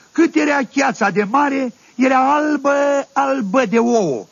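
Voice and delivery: amazed exclamation. Retold or imitated. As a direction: stretch it out in wonder. Uimire la vederea ouălor. (uimire exclamată, mai sus și mai rar)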